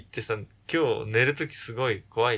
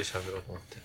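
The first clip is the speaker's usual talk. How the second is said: low voice; 6 semitones lower, 12 dB quieter than usual. Shown as a demonstration. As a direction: speak in a lower voice. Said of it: "低い声で喋ろうと思って".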